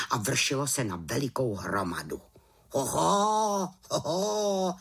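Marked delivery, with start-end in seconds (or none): 2.8-4.7 a startled raven's "Hoho"; surprised exclaim. A narrator's reading. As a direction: caught off guard by what he sees. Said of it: "zvolal Abraxas".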